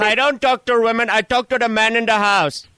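lightly put-on Spanish-accented English, grumpy neighbour; a hint of a Spanish accent, complaining; lightly voiced Spanish-accented caller; mock Spanish accent. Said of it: "What is that accent?".

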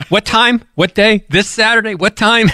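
mock panic. Retelling a friend's panic over a double booking, mock panic. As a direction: imitate a man panicking over a clash of dates. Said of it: "the panic in this guy's voice".

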